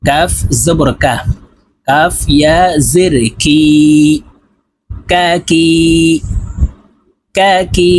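"কা কি" with k just forward of the tongue root, long final vowel; forward kaf sound. Shown as a demonstration. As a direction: chant the spelling, then "কা কি" twice with a forward k. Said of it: "জিহ্বার গোড়া থেকে একটু আগে বাড়াইয়া". ("কা কি" জিহ্বার গোড়ার একটু আগে থেকে কাফের উচ্চারণে, টেনে)

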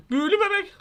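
high squeaky mock awe; hammed-up eerie squeak; mock spooky. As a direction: squeal it in playful dread. Spooky baby remark.

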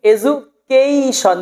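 "এডুকেশন" as e-ju-keii-shon; slow "এডুকেশন" gliding on the third syllable; long ei glide. Shown as a demonstration. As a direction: say "এডুকেশন" stretching kei. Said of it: "এর কারণে পড়তে হবে".

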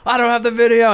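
high, loud mock yell. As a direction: imitate a panicked director yelling. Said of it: "I hear Spencer yelling back".

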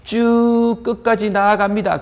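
high, sustained "쭉". Shown as a demonstration. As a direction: hold "쭉" high to picture a long path. 끝까지 나아가는 이미지 표현. ("쭉"을 높게 길게 끌기)

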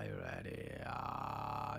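creaky vocal fry speech. Shown as a demonstration. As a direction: talk in a slow creaky fry. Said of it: "你看我还跟用这个气泡音说话".

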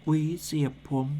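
murmured หวีเสียบผม as a puzzled echo. Acted. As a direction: echo หวีเสียบผม quietly in disbelief. Man repeats quietly.

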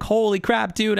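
high, loud burst of disbelief; freaking out. Retold or imitated. Streamer reliving his five-star pull at the signing, excited yelp. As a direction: yelp it like you can't believe your luck. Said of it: "I freak the hell out. I'm like".

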